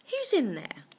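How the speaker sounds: a lightly voiced monk calling; monk calling again. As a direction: call again, curious. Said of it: "asked the monk".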